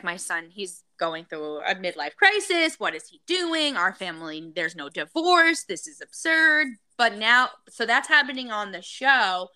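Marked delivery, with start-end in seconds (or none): 0.0-6.7 lightly acted exasperation, pitch leaping on key words; mock a mother's indignant protest; indignant mother-in-law. Mother-in-law complaining about her son's divorce, mildly indignant.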